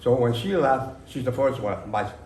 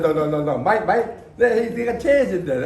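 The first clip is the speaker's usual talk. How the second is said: higher, louder, agitated retold protest; retold flustered no, no, no, pitched up and louder; upset protest; 6 semitones higher, 5 dB louder than usual. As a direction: urgently wave off the crying man. Retelling stopping the tearful interview.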